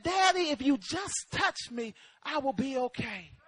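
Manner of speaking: quiet plea, fading to near hush; retold tender plea. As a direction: quote the child gently and simply.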